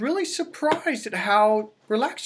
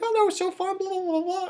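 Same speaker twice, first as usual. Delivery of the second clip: put-on much higher, gushing girlish voice; imitating niece; 13 semitones higher than usual. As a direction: gush like a thrilled young girl. Imitating niece's excited reaction.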